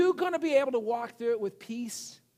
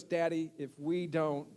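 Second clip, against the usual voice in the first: little daughter voiced; 6 semitones lower, 8 dB quieter than usual. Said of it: "my daughter looks at me and goes".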